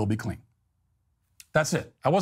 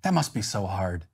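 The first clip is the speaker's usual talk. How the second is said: gentle parent voice. Retold or imitated. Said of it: "look her in the eyes and say".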